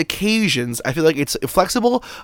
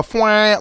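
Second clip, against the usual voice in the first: party blower; 4 semitones higher than usual. Shown as a demonstration. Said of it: "like a party horn".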